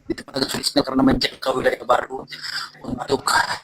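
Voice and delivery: breaking up on a call; choppy dropping audio; bad connection. Real, not acted. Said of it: "suaranya putus-putus tetap".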